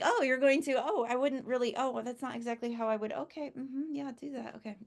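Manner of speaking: hesitant, fading, biting her tongue; imitating her controlling self. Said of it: "And I was just like".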